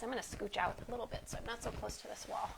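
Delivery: muffled, face down on the mat; talking into the mat. Real, not acted. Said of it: "I'm sorry if you're all muffled".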